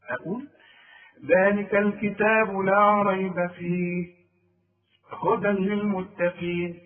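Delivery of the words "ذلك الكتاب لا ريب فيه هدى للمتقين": slow chant running through ريب, stopping on فيه; pause on فيه. Shown as a demonstration. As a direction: link ريب onward, then pause after فيه. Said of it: "وممكن اقف على فيه بس ما اقفش على ريب".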